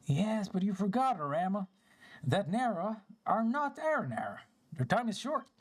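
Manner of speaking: a hint of solemn storybook character; lightly voiced forest spirit. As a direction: gently correct a fellow spirit, lightly in character. Voices game character's dialogue.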